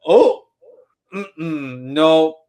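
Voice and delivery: mock awkward excuse. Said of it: "he literally shows up and he's like".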